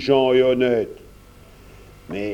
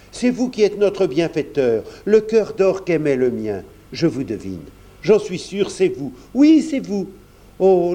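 a heartfelt outburst, pitch climbing on the peaks; crying out fervently; 2 semitones higher than usual. Acted. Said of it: "s'écria". (s'écrier avec ferveur, la voix qui monte sur « Oui, c'est vous »)

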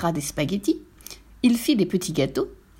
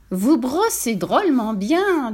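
appreciative piglet; 4 semitones higher, slower than usual. Acted. Piglet enjoys being scrubbed.

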